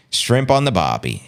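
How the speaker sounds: lightly attempted Australian accent. Shown as a demonstration. Host trying a stock Aussie phrase, mild Australian accent. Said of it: "my Australian accent is not gonna be good".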